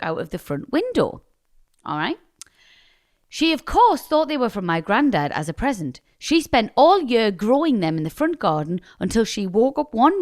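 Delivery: lively storytelling read-out; reading email aloud. Real, not acted. Co-host reading a listener's prank story, animated read-aloud. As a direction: read it out with big pitch swings on key words.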